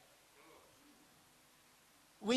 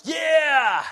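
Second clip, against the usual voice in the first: sudden loud, higher yell; piping up loudly; 6 semitones higher, 6 dB louder than usual. Retold or imitated. Butting in on a conversation, piping up loudly. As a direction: pipe up with a big-mouthed shout. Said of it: "I pipe up my big mouth".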